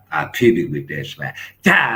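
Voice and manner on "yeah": high, loud yell; short shouted yeah; hammed-up fight shout; mock battle yell. Slap boxing yell.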